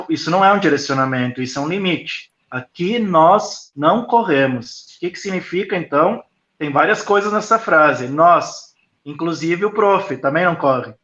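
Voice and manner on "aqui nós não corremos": slow, calm limit with "não" leaned on; a patient reminder at the child's eye level; unhurried kind rule for a small child; calm teacher to a child. Shown as a demonstration. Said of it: "tom de voz baixo e na altura da criança".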